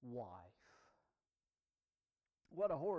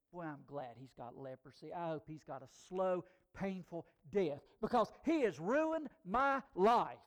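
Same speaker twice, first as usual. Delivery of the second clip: starting hushed, then rising to a bitter louder snarl; bitter muttering that builds; through gritted teeth; 4 dB louder than usual. Pretend. Pretending to be a bitter captive, hushed then louder. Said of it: "quietly squinting through my teeth".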